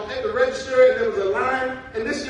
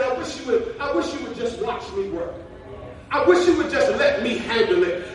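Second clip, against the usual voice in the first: God voiced; 5 dB louder than usual. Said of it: "God is sitting on the sideline saying".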